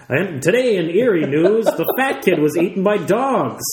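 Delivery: lightly voiced TV news anchor; Doug Llewellyn. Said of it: "Doug Llewellyn would just be like".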